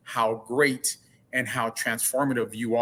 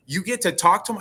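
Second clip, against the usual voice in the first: amazed question; 6 semitones higher, 4 dB louder than usual. Retold or imitated. Stranger's amazed question, retold.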